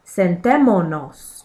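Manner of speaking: "Sentémonos" with the stress on TÉ; stressed verb syllable. Shown as a demonstration. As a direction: lean on the second syllable, TÉ, of "Sentémonos". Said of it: "to the stressed syllable of the verb".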